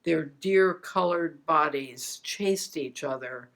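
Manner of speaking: deliberate recital, phrases falling at the end; poem reading. Real, not acted. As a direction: recite a memoir poem with spacious pauses. Recites her memoir poem.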